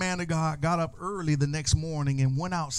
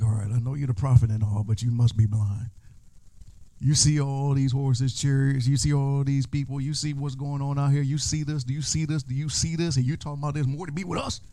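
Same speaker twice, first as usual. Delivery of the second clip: incredulous servant. Acted. Servant doubting prophet.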